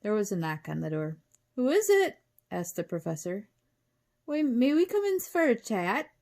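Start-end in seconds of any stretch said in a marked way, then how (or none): 1.6-2.2 high, loud singsong query; calling out. A narrator's reading. Professor answers a knock on the door, calling out. 4.2-6.1 high, loud raspy creature voice; raspy wolf. A narrator's reading. Wolf at the door asks to come in, raspy. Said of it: "asked a raspy voice".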